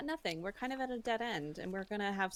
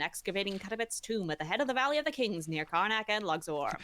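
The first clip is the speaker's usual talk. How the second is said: put-on old-time newsreel reporter, brisk; 1930s reporter voice. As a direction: read it like a 1930s newsman. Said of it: "my nineteen thirties reporter voice".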